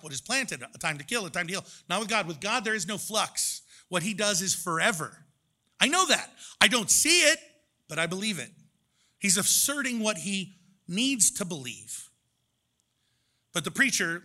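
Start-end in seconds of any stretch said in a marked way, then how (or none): 5.8-8.5 emphatic declaration. Retold or imitated. Voicing the Preacher insisting he believes, loud and emphatic. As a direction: declare it like a vow.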